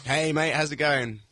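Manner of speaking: hammed-up English greeting; slow, drawn-out English hello; playing up his English accent for the guest. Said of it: "This is a fresh English accent".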